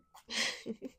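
teasing giggle. Acted. Amused by the partner, teasing giggle. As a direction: giggle at their protest.

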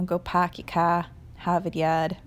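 put-on light Boston accent, dropped R's. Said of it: "the Boston accent".

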